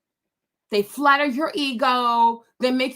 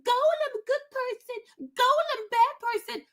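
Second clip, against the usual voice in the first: high, whiny creepy creature pleading; whimpering Golem; 13 semitones higher than usual. Retold or imitated. Golem cowering and begging his master not to hurt him. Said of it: "He's like".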